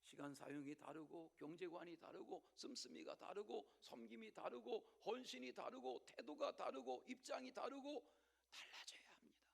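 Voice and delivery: ordinary talk, nothing marked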